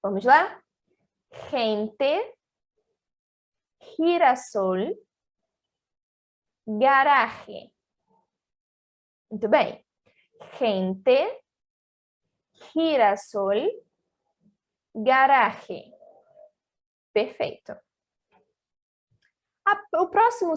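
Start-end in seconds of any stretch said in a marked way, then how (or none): 1.5-7.7 "Gente, girasol" begun with a throaty R-like sound; "garaje" with its J rasped in the throat; Spanish pronunciation. Shown as a demonstration. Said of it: "de acordo com a pronúncia espanhola". 10.6-15.9 "Gente, girasol" begun with a throaty R-like sound; "garaje" with its J rasped in the throat; Spanish pronunciation. Shown as a demonstration. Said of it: "de acordo com a pronúncia espanhola".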